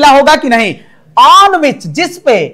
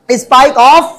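slow dictation; much slower than usual. Shown as a demonstration. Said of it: "क्या होगा?".

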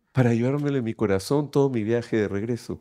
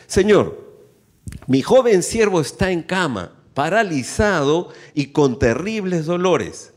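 measured, emphatic public reading; scripture reading. A narrator's reading. Preacher reading the officer's plea from Matthew, emphatic scripture reading. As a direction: proclaim the passage to a congregation. Reads Bible aloud to congregation.

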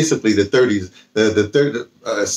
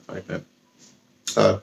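normal talking voice

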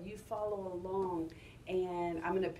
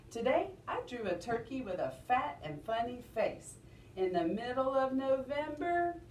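sing-song recital with rising and falling tune; expressive model reading, pitch rising and dipping; 2 semitones higher than usual. Shown as a demonstration. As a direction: read it to children in a lilting rhythm. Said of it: "how my voice goes up and down".

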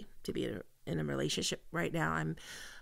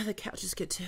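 whispered aside; 3 dB quieter, faster than usual. Acted. Intimate moment at her door.

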